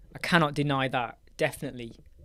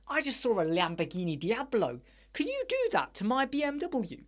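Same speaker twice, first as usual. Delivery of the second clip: mock eager customer; 5 semitones higher than usual. Customer asking dealer to copy.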